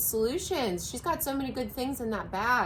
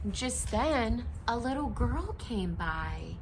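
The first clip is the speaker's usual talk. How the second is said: story narration; 3 semitones higher, slower than usual. A narrator's reading. Reading picture book aloud.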